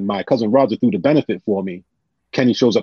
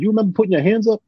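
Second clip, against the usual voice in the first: imitating Kenny; 11 semitones higher, faster than usual. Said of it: "He said".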